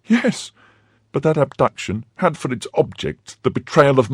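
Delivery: high, urgent wife's voice; defending her mistress against her husband; indignant wife. Acted.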